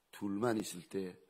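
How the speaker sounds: ordinary delivery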